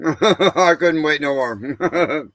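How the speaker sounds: talking through a mouthful of food; words round a bite, unhurried; eating while talking. Real, not acted. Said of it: "I'm starving".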